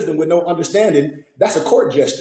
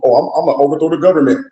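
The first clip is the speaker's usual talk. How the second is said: mock militia boast; faster than usual. Mocking militia talk.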